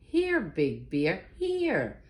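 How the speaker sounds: drawn-out singsong call; tree's call. Acted. Bear mishearing the tree's call, slow and lilting. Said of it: "He thought Tree said".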